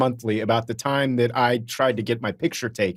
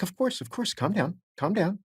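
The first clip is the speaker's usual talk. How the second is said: retold soothing; 7 semitones higher, 6 dB quieter than usual. Soothing the hyperventilating fan.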